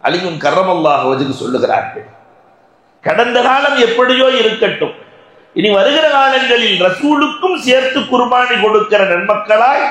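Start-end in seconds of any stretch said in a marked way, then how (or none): 3.0-9.8 high-pitched pulpit exhortation; preaching. Real, not acted. Preacher urges congregation to share their sacrifice, preaching. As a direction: urge the congregation in a raised preaching voice.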